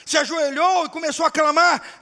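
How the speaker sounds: loud, rising preacher's cry; preaching shout. Acted. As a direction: shout the build-up to the prayer. Preacher building to climax.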